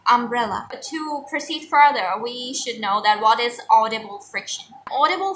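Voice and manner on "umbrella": umbrella with a short uh start, stress on brel; correct American umbrella. Shown as a demonstration. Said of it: "it's umbrella".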